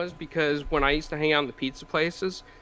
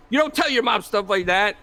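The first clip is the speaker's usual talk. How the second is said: mock scolding, pitched up; lightly acted, higher-pitched reprimand; retold scolding dad; 5 semitones higher, 4 dB louder than usual. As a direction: imitate a dad telling off his kid. Father scolding child in a story.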